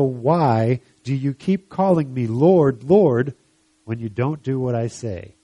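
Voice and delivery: slow, emphatic Bible reading; scripture reading. Acted. Jesus teaching about good and bad trees, measured reading. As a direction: read the teaching out deliberately, leaning on the contrasts.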